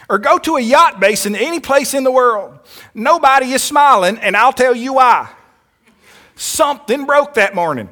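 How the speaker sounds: a bad, hammed-up billionaire from Texas; Ross Perot impression. Preacher mimicking Ross Perot for the congregation, a lightly voiced impression. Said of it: "I'm gonna try to do a little, uh, uh, uh, impersonation here".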